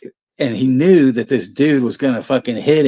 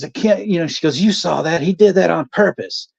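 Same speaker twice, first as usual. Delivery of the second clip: mom's angry rant; 5 semitones higher than usual. Retold or imitated.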